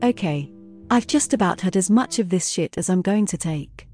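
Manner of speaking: fed-up fury. A narrator's reading. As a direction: draw the line, done with him.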